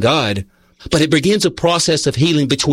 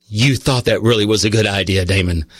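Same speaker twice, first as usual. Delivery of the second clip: low, measured reproving voice; God; 5 semitones lower than usual. Retold or imitated. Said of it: "I heard God say".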